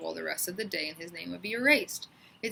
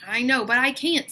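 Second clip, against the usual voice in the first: 1 loud protest; 6 semitones higher, 8 dB louder than usual. A narrator's reading. Paul refusing the pigtail.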